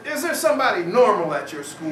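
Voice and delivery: loud, laughing exasperation; exasperated official. Retold or imitated. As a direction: ask it in mock despair.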